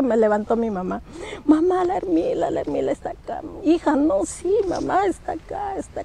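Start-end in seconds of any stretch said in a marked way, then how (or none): 1.4-6.0 high, breathless frightened insisting; panicked child. Retold or imitated. Daughter waking from a nightmare insisting to her mother, high and panicked. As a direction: plead with mom that the ghost is here.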